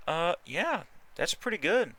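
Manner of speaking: sudden delight at a good result. Real, not acted.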